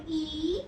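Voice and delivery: "ई" said as the short-I vowel of "sit"; short I sound. Shown as a demonstration. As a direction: demonstrate "ई" as short I. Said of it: "short sound". ("ई" को छोटी इ की तरह)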